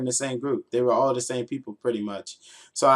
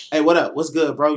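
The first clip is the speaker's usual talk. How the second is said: cool-guy greeting; 4 dB louder than usual. Retold or imitated. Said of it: "I'll be like".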